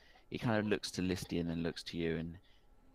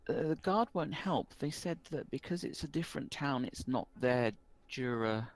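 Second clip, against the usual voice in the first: put-on a worried village boy pleading for help; young rural boy, worried; 5 semitones higher than usual. Rural boy explains his lost sister to the barkeep. Boy's voice, held.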